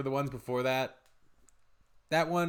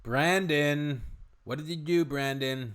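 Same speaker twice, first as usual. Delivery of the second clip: mock scolding; 3 semitones higher, 5 dB louder, slower than usual. Mock scolding of Brandon in story.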